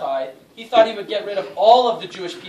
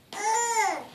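high-pitched restless moan; hammed-up moan of someone unable to sleep; sleepless groan; 13 semitones higher, 5 dB quieter than usual. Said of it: "having a really tough time sleeping".

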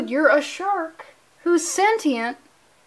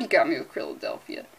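"you got me with Krilladelphia" lower and softer, worn down; defeated mutter; 8 semitones lower, 7 dB quieter, faster than usual. Shown as a demonstration. Host conceding defeat to a pun, low and soft. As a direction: give in to the pun, quiet and low. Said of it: "Good God".

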